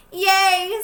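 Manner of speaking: loud happy yay; excited cheer. Acted. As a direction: cheer like a thrilled kid. Child character cheers.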